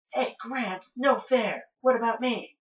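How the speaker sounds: high-pitched protest to grandpa; whining grandson. Acted. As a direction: play an indignant grandson, pitched well up.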